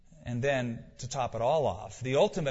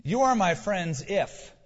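"You are my friends if" slowed, with "if" held and louder; stress on the condition; 4 semitones higher, 4 dB louder, slower than usual. Shown as a demonstration. Preacher to congregation, leaning on "if" slowly. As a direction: lean into "if" as the catch. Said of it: "a little tiny two-letter condition".

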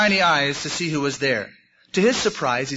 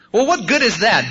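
higher, louder doubtful protest; sniffy dejection; 6 semitones higher, 5 dB louder than usual. A narrator's reading. Bunny doubts the wolf's comfort, mildly sniffy. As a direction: protest with a mild hurt whine. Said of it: "Barrington sniffed".

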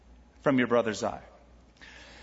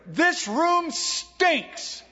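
put-on high, slow, whiny old man's complaint; cranky old grandpa; 12 semitones higher, much slower than usual. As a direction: whine it like a grumpy old codger just woken up. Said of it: "cranky old man".

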